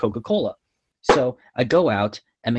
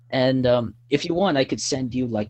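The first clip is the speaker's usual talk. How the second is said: normal talking voice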